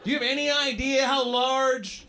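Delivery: high, loud, incredulous questioning; indignant retort. Acted. Comic answering the American girl about Canada, indignant. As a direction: lecture her in exasperation.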